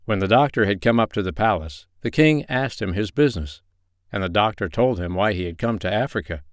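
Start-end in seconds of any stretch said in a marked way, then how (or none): none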